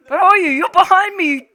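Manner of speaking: high, loud worried call; panicked calling. Real, not acted. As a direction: nervously search for your friend. Looking for friend in dark.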